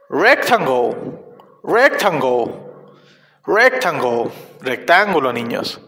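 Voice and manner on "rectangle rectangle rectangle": "Rectangle" lower-pitched, said singly with pauses; repeat-after-me model. Shown as a demonstration. Teacher leading children in practice, clear lower-pitched "Rectangle". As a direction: model "Rectangle" and leave room to echo. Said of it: "Repitan después de mí".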